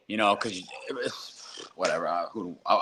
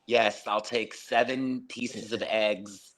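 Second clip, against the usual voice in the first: mock announcer voice; 3 semitones lower than usual. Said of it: "announcers put on, like, a different voice".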